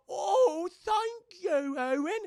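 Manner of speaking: high, loud overwhelmed thanks; hammed-up relief; relieved gush. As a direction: gush with relief like you just survived. Relieved thanks after fear.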